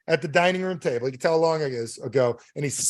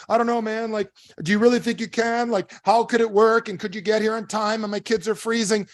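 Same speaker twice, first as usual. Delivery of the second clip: higher-pitched, hesitant acted caller; doubtful customer; 6 semitones higher than usual. Doubting customer in acted phone call.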